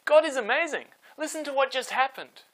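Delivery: high, loud burst of wonder; excited telling. A narrator's reading. Shepherds telling townsfolk about the birth, excited. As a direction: bubble over with the news.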